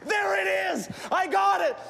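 acted thrill of discovery; excited freak-out. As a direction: play someone overjoyed at finding it. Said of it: "just start freaking out".

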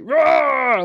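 loud high roar. Retold or imitated. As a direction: roar it out like a hero. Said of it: "Aquaman's like".

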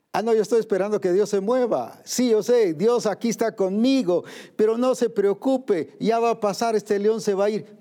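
high, breezy excuse of a believer who waits and does nothing; preacher parodying a believer who waits instead of acting, pitched high; mock complacent believer. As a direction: play the lazy believer shrugging off the lion. Mocking a passive believer's excuse.

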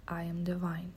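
whispered repeat of the affirmation; whispered echo. Shown as a demonstration. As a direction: whisper it to yourself. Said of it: "Say it with me".

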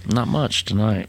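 slow words around a cigarette; lazy talk with a smoke in mouth. Real, not acted. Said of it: "I am smoking a cigarette as we".

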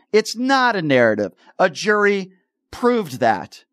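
slow, deliberate emphasis on each phrase; pointedly slow. Real, not acted. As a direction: drive the point home slowly. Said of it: "I try to speak slowly".

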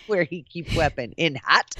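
lightly imitated Russian accent, deadpan; mock Russian accent. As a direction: echo the quote in a Russian accent. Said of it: "she was Russian".

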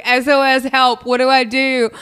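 high, loud comic distress call; mock panic. Botched-wax client texting their waxer, mock panic. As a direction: plead for help in hammed-up alarm.

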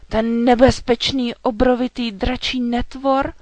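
loud, high, aghast; horrified question. A narrator's reading. Knight hearing the feared dragon's name, horrified. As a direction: ask in open horror. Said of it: "samou hrůzou".

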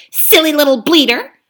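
loud, pushy ape lecturing the beasts; a sly ape bullying the crowd; scheming ape. Acted. Ape haranguing the gathered beasts, loud and pushy. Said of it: "he hissed".

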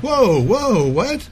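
high, loud disbelieving whoa; shocked. Retold or imitated. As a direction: hit the roof in disbelief. Reacting to extra charge.

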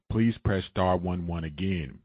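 ordinary talk

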